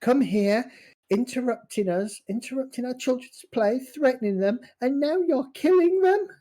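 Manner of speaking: high, loud scolding goblin woman; shrill-voiced goblin matron scolding the elf; angry goblin mother. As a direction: berate him like a furious mother.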